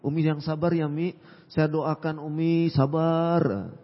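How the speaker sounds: gently soothe, keeping it soft; mild gentle plea. Acted. Daughter praying for Umi's patience, softly gentle. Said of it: "Nah, seperti itu".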